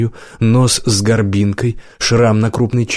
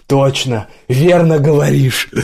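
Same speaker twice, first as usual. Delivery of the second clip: raised-pitch voice of a bar patron; agreeing patron; 4 semitones higher than usual. A narrator's reading. Another patron backs the speaker up, agreeing. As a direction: chime in lightly, pitched up.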